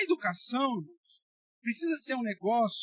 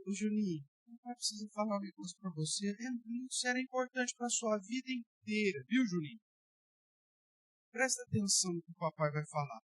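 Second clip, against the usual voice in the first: mild soft pleading; 5 dB quieter than usual. Retold or imitated. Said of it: "Porque você fala assim".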